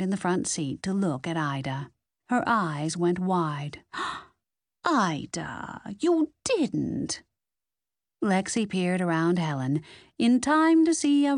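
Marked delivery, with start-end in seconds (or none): 4.3-7.2 shocked gasp. Acted. Nans sees Ida eating cookie.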